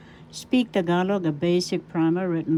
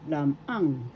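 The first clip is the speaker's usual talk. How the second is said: "lam ang" with the accent on "ang"; stress on second syllable; 2 semitones lower than usual. Shown as a demonstration. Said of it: "The accent is in the second syllable".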